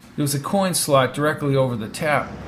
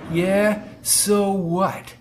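slow, higher-pitched insolent retort; snarled; 5 semitones higher, much slower than usual. Acted. Attendant caught smoking by Brady, slow mild snarl. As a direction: draw it out, daring him. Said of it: "he snarled".

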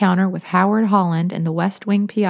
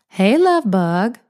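calling out; 3 semitones higher, 3 dB louder, much slower than usual. A narrator's reading. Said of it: "Lil called from the formal living room".

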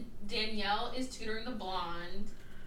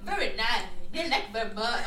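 mock Asian accent from an old film; put-on Asian accent, played as caricature; caricatured Asian accent. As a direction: imitate a stilted, hammy Asian accent. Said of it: "like, a Mickey Rooney in Breakfast at Tiffany's Asian accent".

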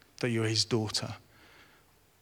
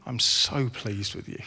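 gentle voice of God; 3 dB quieter than usual. Acted. God repeating affirmation gently.

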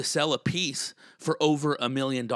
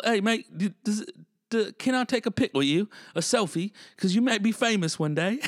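imitated Brit, pitched up and hesitant at first; British accent; 7 semitones higher than usual. British brother asking for a selfie, British accent. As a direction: ask it as a British fan, higher voice. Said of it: "British brother".

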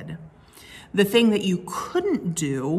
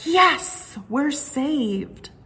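much higher, happy exclamation; relieved cheer; 7 semitones higher, much slower than usual. Acted. Crowd celebrating rescue, high happy cheer. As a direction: burst out in glad relief. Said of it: "Um, or".

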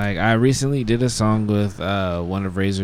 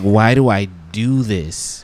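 exasperated self-questioning; 6 dB louder, slower than usual. Retold or imitated.

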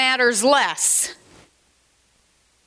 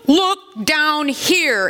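exclaiming Spirit; 3 semitones higher, slower than usual. Acted. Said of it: "exclaimed the Spirit".

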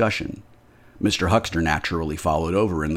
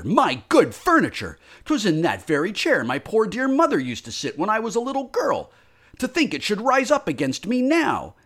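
high, rising distressed lament; distraught wail; 14 semitones higher than usual. Acted. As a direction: wail over the furniture. Landlady lamenting haunted furniture.

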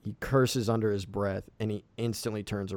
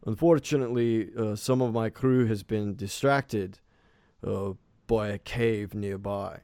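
lightly voiced captain, louder than usual; 5 dB louder than usual. Captain explains his missing crew to the elder, lightly voiced captain. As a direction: explain awkwardly as the captain, voice raised a little. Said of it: "the captain scratches the back".

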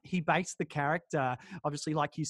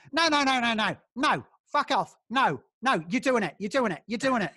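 raised, insistent mock rant; ranting refusal; 4 semitones higher, 3 dB louder than usual. Don bullying Gal into the job, mock rant. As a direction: badger him like a bully. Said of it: "there's these bits where he's just going".

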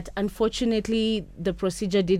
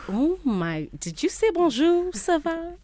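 much higher, giddy and amazed; delighted surprise; 10 semitones higher than usual. Retold or imitated. Retelling her giddy reply to the stranger, high and amazed. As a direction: squeal it back, giddy at the French. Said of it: "I was like".

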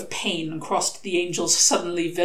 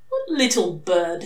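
suspicious; 3 dB louder, slower than usual. Acted. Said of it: "said Aziraphale suspiciously".

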